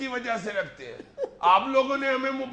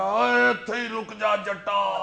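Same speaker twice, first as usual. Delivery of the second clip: slow, drawn-out film hero bellow, only lightly voiced; Sultan Rahi; 4 dB louder, much slower than usual. Film hero on the cinema screen, mock Punjabi hero challenge. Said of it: "سلطان رائی نے کہا".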